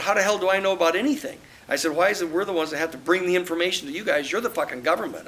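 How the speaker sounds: a frustrated investigator scolding the government's lawyer; exasperated rant. Retold or imitated. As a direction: fire it back fast, fed up. Retold exasperated rant at counsel.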